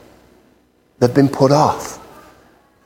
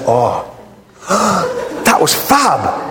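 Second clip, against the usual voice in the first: laughing; slower than usual. Acted. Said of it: "He said".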